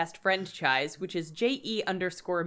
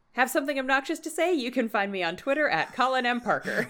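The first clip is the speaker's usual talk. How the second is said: quoting the bit; 4 semitones higher, faster than usual. Retold or imitated. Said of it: "Scavnet bits is".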